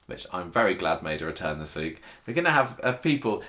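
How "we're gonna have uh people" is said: stiff robot voice, slightly higher. Pretend. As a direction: read it like a robot. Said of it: "I'm gonna quote Summer's Robot now".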